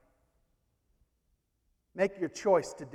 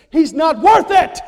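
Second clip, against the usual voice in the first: sudden loud, higher shout; devil's outburst; 8 semitones higher, 13 dB louder than usual. Acted. The devil shouting at Jesus in the garden, loud and slow. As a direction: snap up into a slow shouted sneer.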